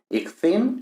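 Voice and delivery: polin lifted high and set apart; teacher's highlighted example. Shown as a demonstration. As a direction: spotlight polin. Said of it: "eso es fácil de pronunciar".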